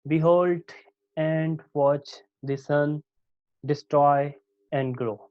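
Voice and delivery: behold / and watch / the sun / destroy / and grow, one foot at a time; iambic scansion. Shown as a demonstration. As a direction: stress hold, watch, sun, stroy, grow. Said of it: "Lines containing iambic fit".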